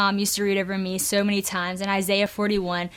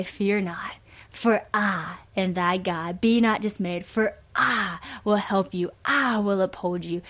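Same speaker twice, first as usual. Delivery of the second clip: put-on thick southern accent. A Southern great grandma reading the verse slowly in her thick southern accent. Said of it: "read this verse in the most southern thick accent".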